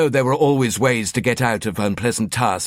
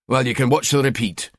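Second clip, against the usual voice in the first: unsympathetic; 2 semitones higher than usual. Acted. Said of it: "he told her unsympathetically".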